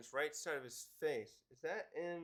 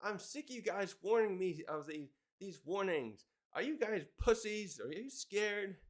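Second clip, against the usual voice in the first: retold yelling; 5 semitones higher than usual. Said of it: "Roger's yelling at him".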